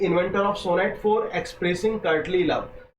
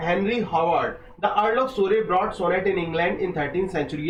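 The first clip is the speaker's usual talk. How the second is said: slow dictation reading; much slower than usual. Acted. Teacher dictating textbook line slowly to exam students. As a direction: read the English line slowly, word by word, as if for notes.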